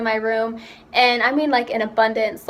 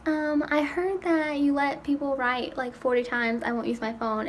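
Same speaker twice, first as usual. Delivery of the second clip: timid; 2 semitones higher, 5 dB quieter than usual. Retold or imitated. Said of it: "I went up to her and I was like".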